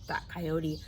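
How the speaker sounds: put-on lively read-aloud for kids; reading to children. A narrator's reading. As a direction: tell the story to a circle of children. Reads picture book to children.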